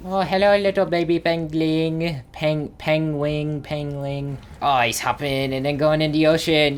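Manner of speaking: playful cooing at a little creature; baby talk. Pretend. Gamer greeting a little baby pengling, cutesy baby talk. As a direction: coo to a baby animal, playfully.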